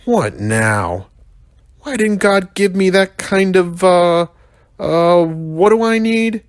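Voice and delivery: high put-on young rhino voice, searching for a word; whiny kid rhino groping for the word; Mac the rhino muttering.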